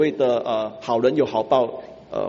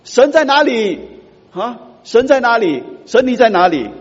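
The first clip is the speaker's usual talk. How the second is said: much higher, louder pleading cry; 9 semitones higher, 8 dB louder than usual. Retold or imitated. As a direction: wail it out to heaven. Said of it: "我们就会哭喊". (大声哭喊着质问神)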